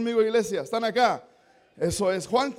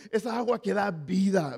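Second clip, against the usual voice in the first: sarcastic; 3 semitones lower than usual. Retold or imitated. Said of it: "me imagino a la mujer haciendo".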